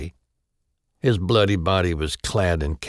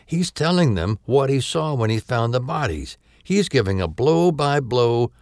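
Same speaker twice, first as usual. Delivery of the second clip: higher, louder agitated yell; 8 semitones higher, 5 dB louder than usual. Acted. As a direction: shout in frustrated alarm. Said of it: "His voice rose to a yell".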